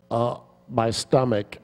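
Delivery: imitating a co-star's slow sick moan; slow, pained whine about the stomach; mock groaning complaint. Carried co-star moaning about his stomach, hammed-up. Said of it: "he keeps going".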